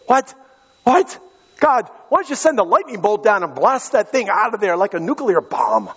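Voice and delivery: mock disbelief, pitched high, falling at the end; incredulous protest. Joshua questioning God's order to march seven days, incredulous. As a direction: protest to God in baffled astonishment.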